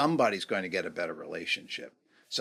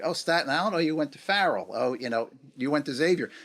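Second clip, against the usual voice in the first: eager recognition; 6 semitones higher, 4 dB louder than usual. Retold or imitated. Acted guessing of someone's school.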